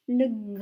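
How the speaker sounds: "gr" sounded as one blend, r held; isolated blend. Shown as a demonstration. Teacher breaking down a syllable, sounded out. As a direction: hold the r in "gr" without a full vowel. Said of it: "pour écrire".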